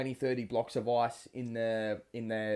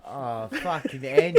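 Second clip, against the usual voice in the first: drawn-out groan; 7 dB louder, much slower than usual. Real, not acted. Reacting to punchline.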